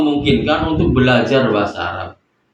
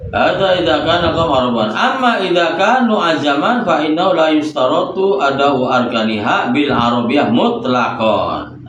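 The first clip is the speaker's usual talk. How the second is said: measured, lilting reading of classical Arabic; kitab recitation; 2 semitones higher than usual. Acted. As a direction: read the Arabic text like a teacher reciting from the book. Reads the Arabic kitab text aloud.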